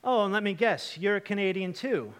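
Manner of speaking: sarcastic. Retold or imitated. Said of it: "looks at then his younger brother Matthew and goes".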